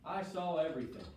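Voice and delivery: lightly voiced witness, eager to tell. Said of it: "And Maddox will go".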